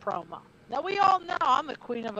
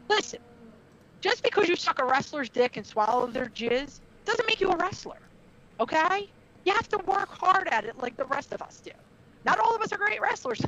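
higher-pitched, emphatic lecture; retold scolding with raised pitch; retold telling-off; 5 semitones higher than usual. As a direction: lay down the law, pausing after the opening word. Retold locker-room telling-off.

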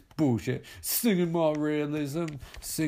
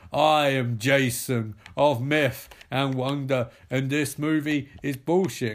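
slow, louder, booming declaration; grand proclamation; 4 dB louder, slower than usual. Acted. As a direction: announce yourself like a legend. Jason proclaims himself to the crowd.

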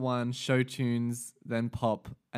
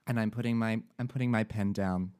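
put-on American reviewer accent. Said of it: "you changed accents halfway through".

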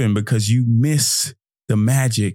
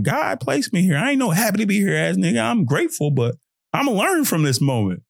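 higher, bold declaration of self-worth; confident true voice; 6 semitones higher than usual. Retold or imitated. His true voice answering self-doubt, proud and sure. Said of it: "my true voice".

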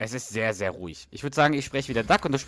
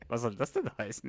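1 irritated, laughing; 7 dB quieter than usual. Retold or imitated. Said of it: "Spence guckt so total irritiert".

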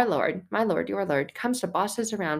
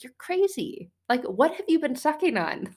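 much higher incredulous boss voice; 8 semitones higher than usual. Retold or imitated. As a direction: play the earthly boss who thinks you've lost it. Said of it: "They'd be like".

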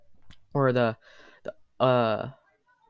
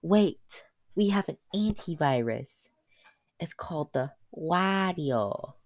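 higher, slow, urgent lady voice; breathless scientist lady; 5 semitones higher, slower than usual. Acted. Scientist lady runs up to stop the team, high and slow. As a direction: stop them before they board the plane. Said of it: "she's like".

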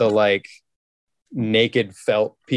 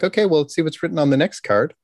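mock teacher; 6 semitones higher than usual. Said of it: "a teacher in a very professional manner".

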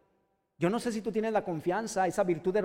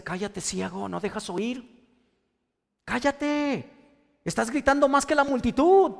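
annoyed hush; 3 semitones higher, 4 dB louder than usual. Retold or imitated. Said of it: "la gente le decía".

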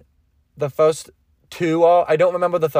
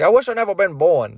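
lightly voiced ogre lament; a hint of a grumbling cartoon ogre; mild mock self-pity; Shrek; 2 semitones higher than usual. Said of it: "that's my impression of Shrek".

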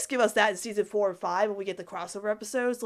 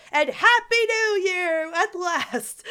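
excited; 10 semitones higher, 7 dB louder, slower than usual. Real, not acted. Cheerful new year greeting.

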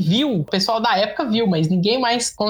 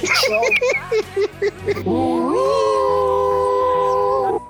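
long high laugh. Real, not acted. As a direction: keep laughing hard. Friends mock host's stunt.

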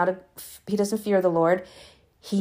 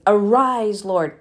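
exclaimed; 5 dB louder, slower than usual. Shown as a demonstration. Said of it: "There's an exclamation mark".

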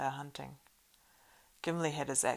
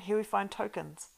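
loud excited call, higher; crying out; 6 semitones higher, 4 dB louder than usual. Acted. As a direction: announce the find loudly. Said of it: "cried Aragorn".

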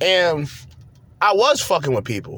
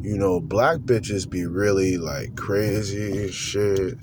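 deep, slow, lazy imitation of the guy; low drawn-out mimicry of a hopeless dater; low mocking voice; 6 semitones lower, 4 dB quieter, slower than usual. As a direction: drop low and drag it out like him. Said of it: "This is how he talks".

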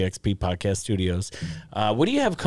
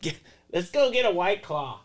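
laughing; 10 semitones higher than usual. Real, not acted. Joking after teasing.

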